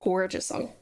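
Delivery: breathy unvoiced whisper. Real, not acted. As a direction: whisper it to yourself. Quiet aside.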